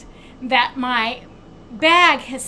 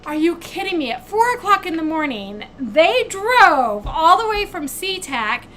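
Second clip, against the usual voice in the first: louder, higher, exasperated disbelief; indignant outburst; 4 semitones higher, 6 dB louder than usual. Real, not acted. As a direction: let the outrage build. Bag dropped off at 4am.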